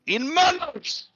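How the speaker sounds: high, stern warrior chief; stern chieftain voice. Acted. GM voicing a figure.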